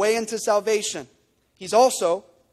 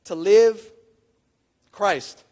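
To live pushed louder, then a pause before Christ; emphatic; 5 dB louder, much slower than usual. Retold or imitated. Preacher voicing Paul's verse, emphatic with a pause. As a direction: stress To live, drop onto Christ. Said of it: "He says it so emphatically".

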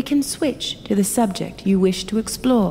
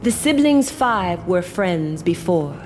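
story narration. Acted. Keeper begins reading the tale.

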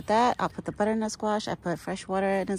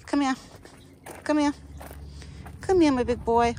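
calling from far away; 6 semitones higher than usual. Real, not acted. Calling the deer.

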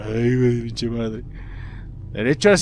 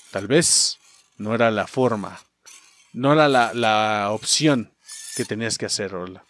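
solemn ending narration; 7 semitones lower, 5 dB quieter than usual. Acted. Reads the game's ending text.

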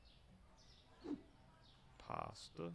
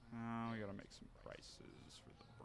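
soft voiceless whisper; whispered aside; 6 dB quieter than usual. Real, not acted. Streamer quietly planning bread prices, whispered. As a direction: whisper it to yourself.

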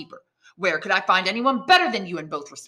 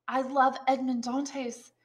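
cold; 7 semitones higher, 5 dB quieter, slower than usual. Acted. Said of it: "replied the girl coldly".

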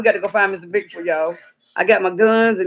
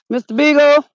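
calling out; 5 semitones higher, 5 dB louder than usual. Real, not acted. Calling for lost dog.

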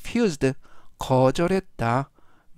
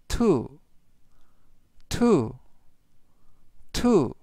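measured word-by-word reading for repetition; slow model reading; much slower than usual. Shown as a demonstration. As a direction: give each repeat room for learners to follow. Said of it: "천천히 세 번씩 읽어드리고요". (따라 하도록 천천히 읽기)

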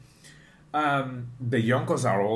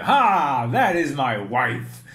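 loud "Ha!" then slow proud words; proud loud laugh; 6 dB louder, slower than usual. Retold or imitated. Vlogger mimics Oden boasting to Toki, loud mock laugh. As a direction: boast about your wife with a booming laugh. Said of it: "And you".

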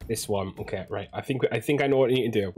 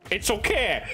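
mock-soothing laugh; 11 semitones higher, slower than usual. Player soothes doomed patient, laughing.

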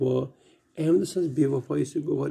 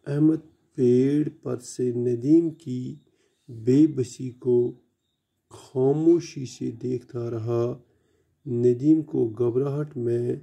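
put-on measured storybook reading to children; unhurried classroom read-aloud; slow story reading; slower than usual. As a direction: read the tale slowly and clearly for the class. Teacher reads Urdu story aloud.

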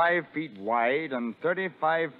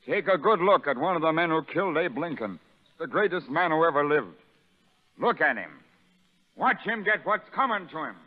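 contemptuous harangue; 4 semitones higher than usual. Acted. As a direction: whip the crowd against him. Sergeant harangues the prisoners.

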